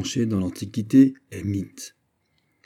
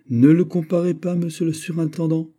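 urgent, emotional warning raised in pitch; moved voice; 7 semitones higher than usual. A narrator's reading. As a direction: plead with him, voice stirred and rising. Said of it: "dit Conrad d'une voix émue".

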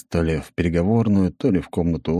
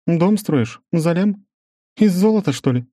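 incredulous; 12 semitones higher, 4 dB louder than usual. Acted. Incredulous Svetlana.

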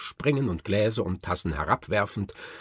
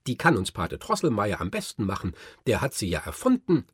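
calling out; 5 dB louder, faster than usual. Acted. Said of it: "rief Fritz".

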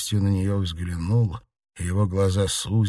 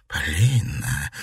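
lower, slow, dazed; stunned whisper of a name; 4 semitones lower, slower than usual. Acted. Mother recognising her lost daughter, dazed. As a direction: say her name as if seeing a ghost. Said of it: "ошеломлённо произнесла она".

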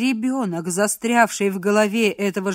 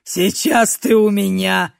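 slow menacing threat; 5 dB louder, slower than usual. Acted. Threatening captive.

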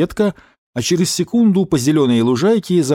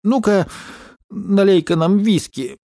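higher, slow magnanimous order; generous order; 7 semitones higher than usual. Acted. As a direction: lordly command to the barman. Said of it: "великодушно распорядился". (великодушно, выше обычного)

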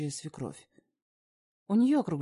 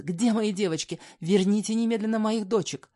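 tearful demand; 6 semitones higher, 6 dB louder than usual. Acted. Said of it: "из её глаз брызжут слёзы".

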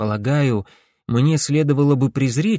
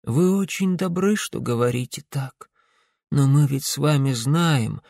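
put-on weak old woman. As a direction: speak gently like a sick old woman. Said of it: "сказала старушка слабым голосом".

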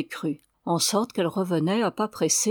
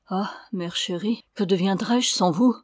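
tendrement. Acted. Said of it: "l'embrassa tendrement".

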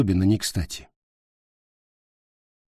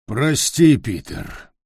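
trailing off into a breathy sigh; sighing apology; 2 semitones higher, slower than usual. Acted. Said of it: "с глубоким вздохом сказал тролль".

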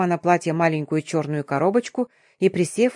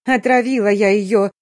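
loud wailing confession; breaking down as she confesses, wailing; 2 semitones higher, 5 dB louder than usual. Acted. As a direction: howl it out in despair. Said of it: "завыла Самия".

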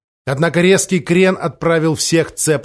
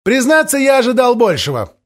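disappointed; 9 semitones higher, 4 dB louder than usual. Acted. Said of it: "разочарованно произнёс Нучик".

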